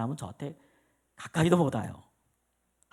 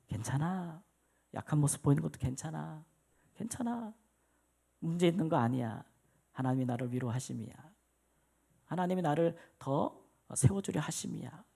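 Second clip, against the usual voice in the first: soft reassurance; 7 dB quieter than usual. Retold or imitated. Quiet reassuring inner voice.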